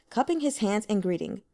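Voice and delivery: ordinary delivery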